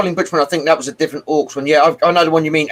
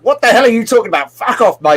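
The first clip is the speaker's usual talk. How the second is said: drill sergeant; 5 semitones higher than usual. Retold or imitated. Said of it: "he starts acting like a drill sergeant".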